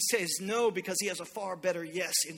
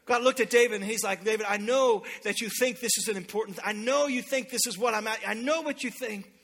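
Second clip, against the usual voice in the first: raised sermon voice; emphatic preaching; 3 semitones higher, 5 dB louder than usual. Real, not acted. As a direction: press it home to the congregation. Preaches, voicing God to David.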